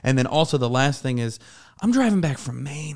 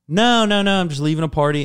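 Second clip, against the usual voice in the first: loud, higher-pitched retold denial; imitated protest; 5 semitones higher, 6 dB louder than usual. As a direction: protest hastily as the accused dad. Drunk dad protests, retold.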